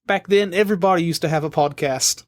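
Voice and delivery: put-on lightly done Australian accent; a hint of an old Aussie lady. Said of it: "That was my good Australian accent".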